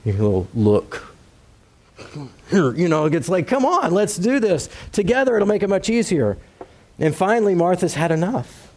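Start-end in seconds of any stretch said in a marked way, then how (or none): 3.5-6.4 light, high coaxing parent voice; a hint of a coaxing parent. Parent nudging a child to help in the kitchen, lightly coaxing. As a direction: coax the kid to help, pitched up.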